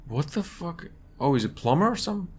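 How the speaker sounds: giggling disbelief. Real, not acted. After scare, relieved disbelief.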